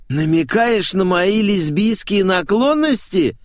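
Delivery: high, drawn-out squeal; indignant squeal. A narrator's reading. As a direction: squeal the question, affronted. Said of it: "взвизгнула мамзель".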